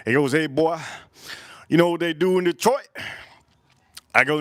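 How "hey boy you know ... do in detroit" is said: lightly voiced Detroit thug, a bit higher; mildly put-on street-tough voice. Thug quizzing him about Detroit, lightly imitated tough talk. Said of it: "one of the thugs from Detroit".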